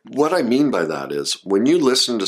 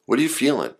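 empathetic response; 4 semitones lower, faster than usual. Shown as a demonstration. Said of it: "Here's how you respond".

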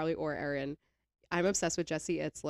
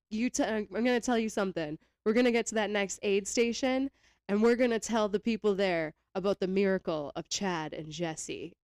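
hippie voice; 3 semitones higher, 4 dB louder than usual. Retold or imitated. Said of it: "he gets into this, like, hippie voice".

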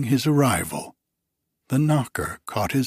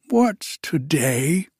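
higher, louder, drawn out What's today; eager cry; 6 semitones higher, 4 dB louder, slower than usual. Acted. Scrooge calling down to a boy, excited cry. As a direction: call it out in joy. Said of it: "cried Scrooge".

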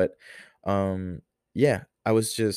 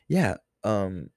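mom's voice. Retold or imitated. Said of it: "this is not how my mom sounds".

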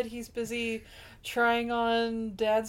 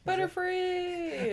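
Pokemon cry voice; 7 semitones higher, much slower than usual. Retold or imitated. Mock cry of the Pokemon name.

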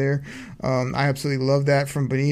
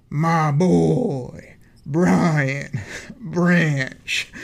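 drawn-out hype call; much slower than usual. Acted. To Choppy, hyping the rookie's pick with a drawn-out call. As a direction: stretch the name out slowly with a laugh.

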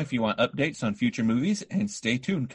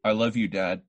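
flat monotone delivery; 3 semitones lower than usual. Retold or imitated. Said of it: "read everything had a period".

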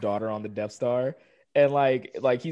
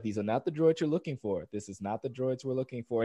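Obi-Wan; 7 dB quieter than usual. Retold or imitated. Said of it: "Obi-Wan was the one".

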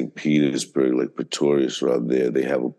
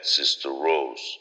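Afrikaans greeting; slower than usual. Acted. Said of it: "I will start my speech like this".

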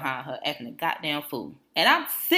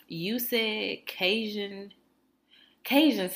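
slow, drawn-out mock of a counter worker; order-taker reading back; 4 semitones higher, much slower than usual. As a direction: imitate her haltingly reading back, pitched higher. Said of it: "she started reading it back to me".

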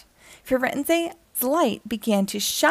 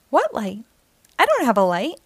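a sharp, louder snap of denial; snapping; 4 dB louder, faster than usual. Acted. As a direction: bite the words off, defensive. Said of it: "snapped Firenze".

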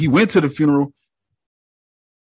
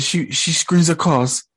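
put-on light British accent; 3 semitones higher than usual. Reacting to the show, quoting the doctor in a light British accent.

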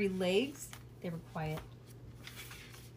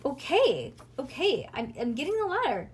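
exasperated, raised-voice grumbling; put-upon irritation; grumpy; 5 semitones higher, 5 dB louder than usual. A narrator's reading. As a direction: give in grumpily, pitched up. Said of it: "grumped Nancy".

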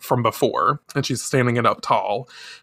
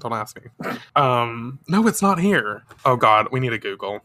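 ordinary delivery, nothing marked

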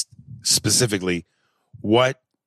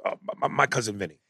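excited. Real, not acted. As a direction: blurt it out as it hits you. Excited recall of movie title.

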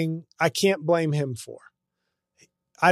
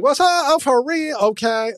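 higher, hyped-up mock street voice; imitating a comic's put-on accent; african american accent; 9 semitones higher, 4 dB louder than usual. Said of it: "people like black entertainers a lot".

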